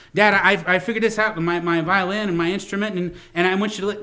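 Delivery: lightly voiced excited kid; eager child. Child showing dad the violin, eager and rushing.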